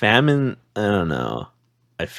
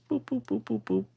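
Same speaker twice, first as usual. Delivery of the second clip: squeaky boop noises; high playful boops; 13 semitones higher, 11 dB quieter than usual. Pretend. Handing over the clip playfully.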